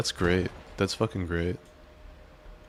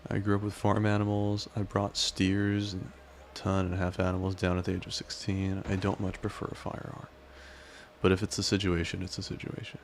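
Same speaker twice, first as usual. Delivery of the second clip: put-on southern cowboy accent. Streamer reading Nova's chat message aloud, lightly Southern cowboy accent. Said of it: "reading everything you say in a southern cowboy-esque accent".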